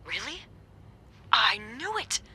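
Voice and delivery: vindicated cry; excited. Acted. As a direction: pounce on the news. Gossip confirmed, excited.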